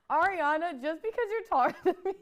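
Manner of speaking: high, fast, laughing jab; jealous. Pretend. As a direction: snipe at a rival while laughing. Jealous call-out to Ariana.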